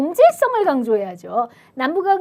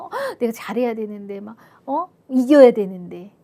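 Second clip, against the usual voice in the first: acted fretting with a gasp; mock anxious urgency; anxious, impatient; 2 semitones lower, 4 dB louder than usual. Someone fretting they must do well and win, anxious and impatient. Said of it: "뭔가 조급하고 막".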